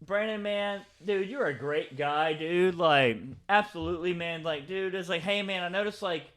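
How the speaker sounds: softly voiced imitation of a kindly boss; mildly mock-chummy, easygoing and soft; friendly reassurance. Retelling Mister J reassuring his worker Brandon, soft and friendly. Acting out Mister J being kind.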